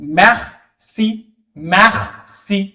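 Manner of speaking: merci with throaty kh-like r, mekh-si; French merci. Shown as a demonstration. Teacher models merci with the French r for students. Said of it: "कैसे".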